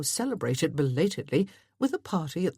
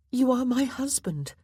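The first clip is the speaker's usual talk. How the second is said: markedly higher, earnest wife; insistent wife; 8 semitones higher than usual. A narrator's reading. Wife reminding husband of their bond, insistent.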